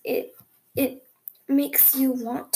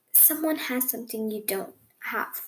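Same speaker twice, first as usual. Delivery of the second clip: whispering; 2 semitones lower, 6 dB quieter than usual. Real, not acted. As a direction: whisper the secret answer. Dramatic reveal of the answer.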